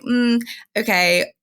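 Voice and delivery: musing to herself. Retold or imitated. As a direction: mimic the moment an idea clicks, lightly. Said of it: "And then I was like".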